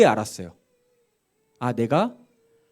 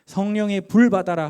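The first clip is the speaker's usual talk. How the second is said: imitated preacher's call, higher and louder; mock commanding cry to the congregation; revivalist shout; 5 semitones higher, 6 dB louder than usual. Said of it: "막 외치면서".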